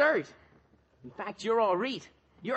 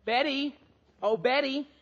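higher-pitched friendly hail; calling out; 4 semitones higher than usual. Acted. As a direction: call over to a girl passing by. Hails Betty as she comes.

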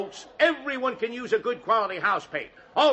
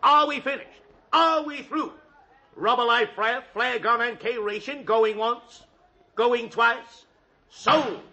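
auctioneer call. Acted. Auctioneer calls the sale.

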